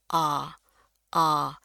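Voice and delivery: "A" ouvert, entre a et o, allongé; A épais. Shown as a demonstration. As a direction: ouvrir grand sur "A", mâchoire tombante. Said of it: "Rahangnya juga harus turun".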